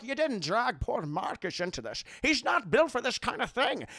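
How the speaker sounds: slushy-s reproachful father impression; Sean Connery. Father worries about Marcus, reproachful impression. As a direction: protest with every s slurred to sh. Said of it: "Sean Connery's like".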